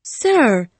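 loud, urgent outcry; crying out. A narrator's reading. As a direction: cry out in protest. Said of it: "I cried".

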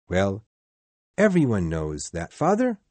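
the son jumps in eagerly; eager cry. Acted. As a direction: Peter telling his father everyone knows. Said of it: "cried Peter".

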